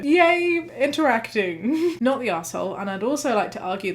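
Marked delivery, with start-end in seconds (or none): 0.0-2.0 a jokey "yay" jumping way up in pitch; a little sarcastic celebration, pitched high; mock cheer. Mock cheer about polite interaction.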